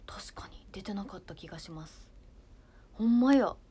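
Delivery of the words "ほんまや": loud, raised exclamation of discovery; real surprise. Real, not acted. Streamer spotting emoji comments on screen, surprised. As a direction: burst out loudly, amazed it's really there. Surprised at seeing a new feature.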